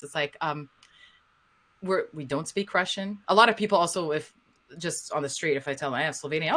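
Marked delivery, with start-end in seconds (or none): 1.8-3.2 patient, mild explanation to developers; infinite patience. Retold or imitated. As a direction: explain it with strained politeness. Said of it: "sort of with infinite patience in my voice".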